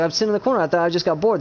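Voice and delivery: Keegan imitation. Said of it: "I would sound like Keegan a lot".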